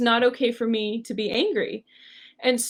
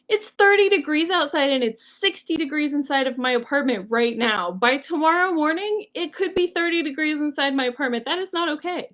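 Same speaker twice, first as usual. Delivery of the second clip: retold indignant protest, higher toward the end; recounting an angry complaint; mad; 4 semitones higher than usual. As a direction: argue heatedly without shouting. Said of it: "I just keep getting madder".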